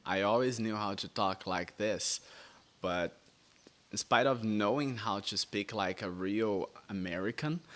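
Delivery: smooth, relaxed American-sounding English; American accent. Shown as a demonstration. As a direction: talk like a real American, easy and natural. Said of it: "eu sabia falar de um outro jeito, que é assim".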